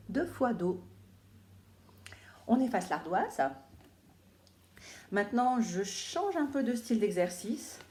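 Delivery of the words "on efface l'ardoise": whispered aside. Real, not acted. Teacher whispering to the class to wipe slates. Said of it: "whispered classroom instruction".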